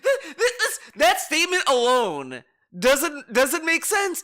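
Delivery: high cracked laugh through the words; laughing disbelief. Real, not acted. Streamer laughs at the guest's statement, voice cracking up. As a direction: break up laughing mid-word.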